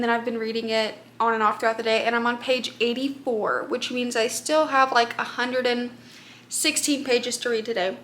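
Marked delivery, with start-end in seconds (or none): 3.7-8.0 talking around hard candy; words round a Jolly Rancher; mouth full. Real, not acted. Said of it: "Sorry, I'm eating a Jolly Rancher".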